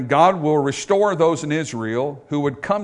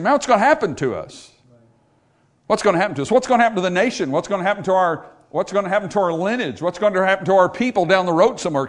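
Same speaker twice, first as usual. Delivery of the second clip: worried believer; 5 semitones higher than usual. Retold or imitated. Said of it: "you'd be saying".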